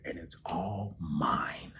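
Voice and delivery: tearful, breaking into a whisper; emotional hush, barely voiced; choked-up whisper. Real, not acted. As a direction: whisper it through held-back tears. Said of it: "feeling myself getting emotional".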